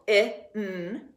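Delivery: "I, N" as a short vowel, then a held n; sounding out. Shown as a demonstration. Teacher giving the first syllable's sounds, sounding out. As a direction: sound out "I, N" separately. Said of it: "First syllable".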